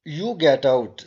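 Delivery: lightly voiced husband ordering his wife out; mock sharp order. Husband sends his wife out of the room, mild mock order. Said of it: "said the husband to his wife".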